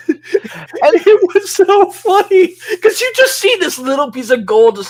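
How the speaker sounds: high, loud, helpless giggly telling; squealing through laughter; laughing while talking. Real, not acted. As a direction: crack up as you tell it. Cracking up at a funny moment.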